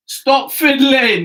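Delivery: loud scolding. Real, not acted. Telling friend off for fiddling.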